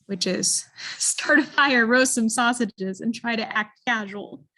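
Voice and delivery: amused reveal. Shown as a demonstration. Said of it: "but I know what Hines did".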